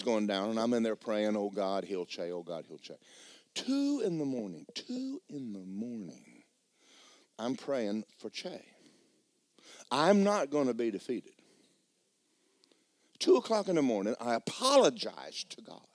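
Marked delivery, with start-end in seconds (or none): 1.3-3.0 soft, low murmured prayer; quiet retold prayer. Father praying for his daughter at night, hushed. 14.2-15.9 slow whisper; whispered apology. Retold or imitated. Preacher confessing to God at two in the morning, whispered.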